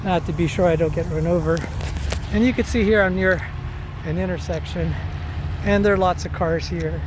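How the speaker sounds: talking while jogging; breathy, running pace. Real, not acted. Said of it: "Talking and running's kinda hard".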